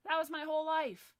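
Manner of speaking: imitated distress. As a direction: voice a victim's outcry. Voicing crying business owners.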